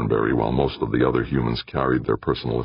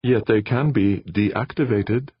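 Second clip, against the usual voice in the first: mischievous; 8 semitones higher, slower than usual. Acted. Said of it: "with just a hint of mischief".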